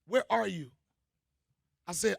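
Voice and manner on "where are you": put-on child voice. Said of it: "He said".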